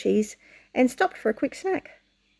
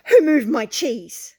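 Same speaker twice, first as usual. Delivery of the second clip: indignant; 5 dB louder, slower than usual. Acted. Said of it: "Hem yelled".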